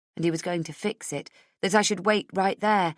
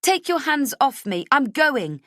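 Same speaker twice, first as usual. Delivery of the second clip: loud, high, furious; struggling heroine yelling to be released; angry protest; 9 semitones higher, 5 dB louder than usual. Acted. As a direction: shove him off and shout. Heroine struggling against guard.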